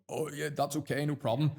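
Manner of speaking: high, meek mock caving-in; imitating a scared seller folding; nervous caving in. Salesperson panics when a client stalls, high nervous mock voice. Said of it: "shit their pants and go".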